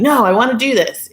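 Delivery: laughing husband quote. Retold or imitated. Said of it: "And he's like".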